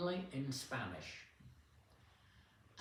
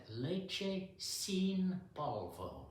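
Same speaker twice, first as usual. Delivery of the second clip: tentative shopper; 5 semitones higher, much slower than usual. Retold or imitated. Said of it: "and she said".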